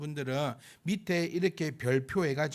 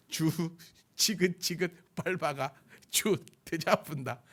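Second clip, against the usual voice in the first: Gyeongsang dialect. Shown as a demonstration. Preacher asking listeners to imagine it, Gyeongsang dialect. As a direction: savour each word in Gyeongsang dialect. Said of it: "경상도 말로".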